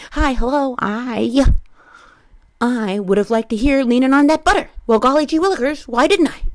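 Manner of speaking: golly-gee white-guy impression; mock white-guy voice. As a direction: play a corny wholesome white guy. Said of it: "the white voice people do when they're impersonating white people".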